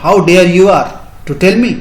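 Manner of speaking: indignant challenge. Shown as a demonstration. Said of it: "ऐसे आप किसी को चैलेंज करते हैं".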